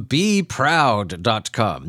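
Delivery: slowly, every syllable laid out; slow and spelled out. Shown as a demonstration. Host reading out a website name, slow and careful. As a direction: read the web address out carefully, slowly. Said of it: "Just a letter B".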